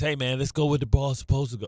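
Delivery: gentle, soft, softened put-on voice. Imitating how a basketball player thinks: imitating Cat in a soft voice. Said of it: "change my voice all soft".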